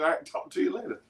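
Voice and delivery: high, breathy mocking imitation of her; mocking his wife. Husband mimicking wife's goodbye, high and whispery. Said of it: "He was a liar".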